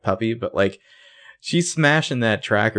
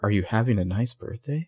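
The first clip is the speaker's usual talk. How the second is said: ominous; 4 dB quieter than usual. Retold or imitated. Host imitating the actress's birthday line, lightly ominous. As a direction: imitate a faintly sinister question, softer. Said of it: "like, kind of ominous".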